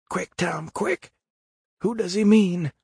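high, hushed panicky squeak; frightened urgency. A narrator's reading. Huck begs Tom to say whom the dog means, frightened. Terrified boy urging his friend.

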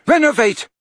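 loud, high spell cry. A narrator's reading. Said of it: "he cried".

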